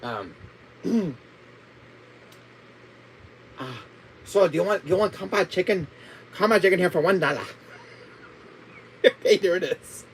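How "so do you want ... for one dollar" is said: put-on Chinese accent. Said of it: "do a Chinese accent".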